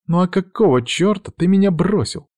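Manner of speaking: high, indignant woman's voice; indignant demand. A narrator's reading. Witch confronting the man who left her, indignantly high.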